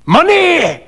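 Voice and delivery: high, outraged exclamation; indignant cry. A narrator's reading. Fettes spurning the doctor's offer of help, indignant cry. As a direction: cry it out in scornful disbelief. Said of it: "cried Fettes".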